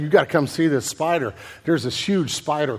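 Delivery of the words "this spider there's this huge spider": ordinary talk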